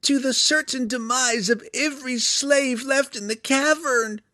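very high, loud creature voice; monster warning. A narrator's reading. Hook Horror foretelling the slaves' demise, high creature voice. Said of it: "Clacker continued".

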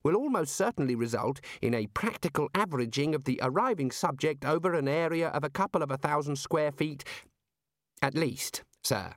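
careful technical explanation to a superior; a hint of an earnest academic underling; lightly voiced deferential explainer. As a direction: explain it precisely, with a touch of deference.

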